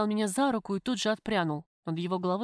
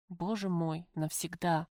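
subdued, sinking despair; stricken realisation; 3 semitones lower, 3 dB quieter, slower than usual. Acted. Prisoner grasps that her sentence is for life, despairing. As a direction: let it sink in quietly, hopeless.

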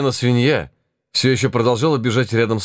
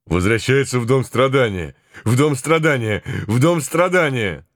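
ape-man voice; 4 semitones higher than usual. Acted. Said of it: "голос обезьяны-человека".

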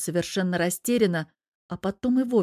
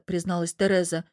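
ordinary delivery, nothing marked

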